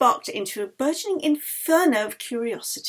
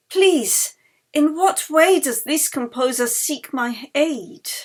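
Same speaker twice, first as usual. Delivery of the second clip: urgent plea; 4 semitones higher, 5 dB louder, slower than usual. Acted. Asking spirit urgently.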